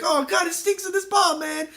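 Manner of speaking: high, loud disgusted wail; comic distress. Acted. Victim who farted inside the ball, wailing in distress. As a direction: play up panicked disgust.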